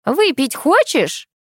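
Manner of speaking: high, drawn-out call; calling across. A narrator's reading. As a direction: call the tempting question across the yards. Neighbour calls across the yards. (протяжно крикнуть через двор)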